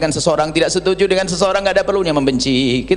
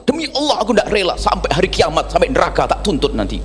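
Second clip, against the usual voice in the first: angry vow; 3 semitones higher than usual. Retold or imitated. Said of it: "kalau sudah marah itu langsung".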